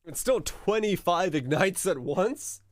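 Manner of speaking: high, slow, incredulous question. Real, not acted. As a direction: stretch it out in rising disbelief. Baffled reaction to combined ignites.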